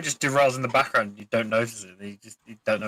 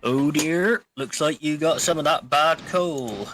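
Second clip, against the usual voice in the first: Duck impression; 3 semitones higher, slower than usual. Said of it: "Everybody I know who does the Duck impression".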